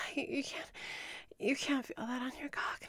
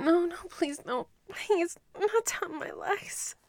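desperate pleading; 5 semitones higher than usual. Acted. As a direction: plead in rising panic.

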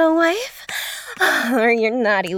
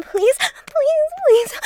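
much higher pleading cry; high begging; much slower than usual. Acted. Begging her partner in roleplay, high pleading cry.

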